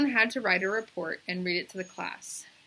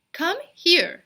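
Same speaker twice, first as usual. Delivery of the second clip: teacher summoning; 10 semitones higher, 10 dB louder than usual. A narrator's reading.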